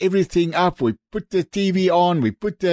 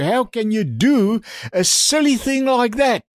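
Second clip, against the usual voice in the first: higher-pitched mild scolding, every question pushed; acted-out reprimand with rising exasperation; retold scolding; 4 semitones higher than usual. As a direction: tell someone off in indignant questions. Ambassador scolds her on phone.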